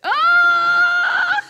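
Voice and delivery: high, loud caught-you yell; sudden shout. Real, not acted. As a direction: blurt it out as he slips. Catching child licking lips.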